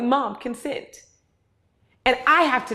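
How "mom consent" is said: slow deadpan reminder. Retold or imitated. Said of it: "My daughter will tell me".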